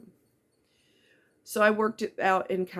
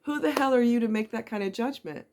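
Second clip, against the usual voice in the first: indignant; 5 semitones higher, faster than usual. Real, not acted. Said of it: "scolding online doubters".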